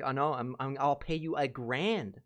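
a hint of a client begging him to take the job; mock pleading client.

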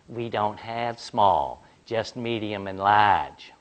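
slow, careful explaining to a customer; patient clerk. Retold or imitated. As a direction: lay it out slowly like a polite clerk. Clerk explains the soda sizes.

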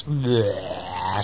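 drawn-out "bleh" of disgust; playful yuck noise. Acted. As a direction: spit out a nasty taste. Acting out too-sweet porridge.

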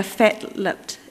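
slow New Zealand accent on fat-lipped. Shown as a demonstration. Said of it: "that's pretty good, my New Zealand accent".

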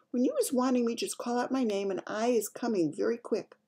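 lightly voiced gentle giant; giant's whisper. A narrator's reading. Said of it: "the B F G whispered".

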